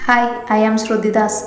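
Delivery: slow, mildly scornful and spiteful; a touch of cold spite as she shakes hands; contemptuous. Acted. Shruthi greeting her rival Pavi with mild, slow scorn. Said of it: "ഒരു പുച്ഛത്തോടെ അതിലുപരി പകയോടെ".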